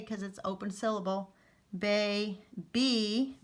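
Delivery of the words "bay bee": "bay, B" as two separate long-vowel syllables. Shown as a demonstration. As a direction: sound out "bay", then "B" with a long E. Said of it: "because it's a long E".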